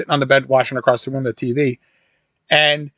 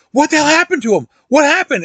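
much higher, alarmed yelp of disbelief; startled friend; 13 semitones higher, 3 dB louder than usual. Retold or imitated. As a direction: jump out of your skin and demand answers. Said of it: "he jumps, he goes".

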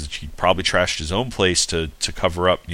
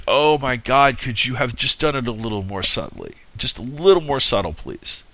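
exasperated; 5 semitones higher than usual. Retold or imitated. Exasperated aside at cheesy scene.

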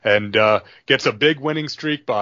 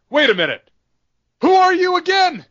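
much higher, louder mock-puzzled brush-off; mocking JBL; 5 dB louder than usual. JBL dismissing Gino on Thunder, mock-puzzled and much higher. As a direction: sneer as if you've never heard of him. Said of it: "J B L just kinda laughs and goes".

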